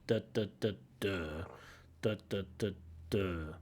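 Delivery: quiet duh duh duh DUH with the beat on the last; rhythm tapped out. Shown as a demonstration. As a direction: tap out the rhythm, stress the final "duh". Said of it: "Stress on the last syllable".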